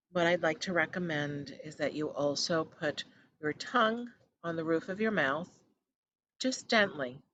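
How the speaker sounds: measured guiding voice with long pauses; guided meditation. Acted. Host settling listeners into breath focus, calm guided meditation. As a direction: ease them gently into stillness.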